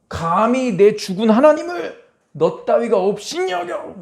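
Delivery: high, slow, menacing rebuke; angry heavenly host. Pretend. Angels rebuking the sinner, slow menacing voice. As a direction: glare down and rebuke the offender slowly.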